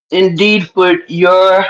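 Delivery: low, smooth imitation of her calm voice. Reading out her reply in a smooth, calm voice. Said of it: "your voice be so smooth and calm".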